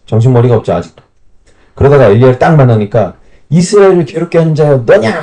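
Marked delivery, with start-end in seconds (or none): 3.5-5.2 higher, accusing king picking a fight; mock accusing challenge. The king confronting Elijah, higher and accusing. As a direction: throw the accusation up high like a sneering king.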